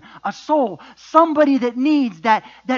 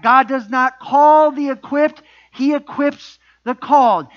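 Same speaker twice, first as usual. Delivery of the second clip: slow, louder, emphatic projection; for the back row; 3 semitones higher, 5 dB louder, slower than usual. Real, not acted. Preacher repeats it for those in the back, projected emphasis. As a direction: project each word slowly to the back. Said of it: "again for you in the back".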